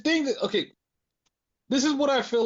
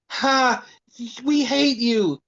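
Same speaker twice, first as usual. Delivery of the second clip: higher, louder cackling taunt; mock taunt; 6 semitones higher, 4 dB louder, much slower than usual. Shawn taunting Tatum after ripping the doll, high mock gloat. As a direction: gloat like a cartoon bully.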